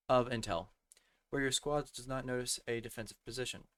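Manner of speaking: strained, fading voice; losing voice. Real, not acted. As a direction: voice giving out mid-sentence. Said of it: "I'm losing my voice".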